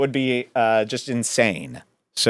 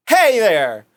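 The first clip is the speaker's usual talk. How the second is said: higher, sudden attention-grabbing call; mock-heroic challenge to an attacker; 8 semitones higher than usual. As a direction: call out to startle him. Calls out to attacker behind him.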